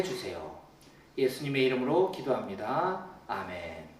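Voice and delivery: soft, even reading of a prayer; quiet prayer reading. Shown as a demonstration. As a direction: read the prayer gently to yourself. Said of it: "먼저 제가 읽어보겠습니다".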